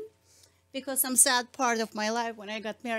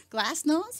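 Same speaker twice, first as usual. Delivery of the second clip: Russian pronunciation; 5 semitones higher, 8 dB louder than usual. Shown as a demonstration. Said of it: "Say glasnost".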